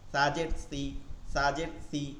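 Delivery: সি light and thin. Shown as a demonstration. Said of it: "সবগুলো চিকন হচ্ছে". (চিকন করে সি)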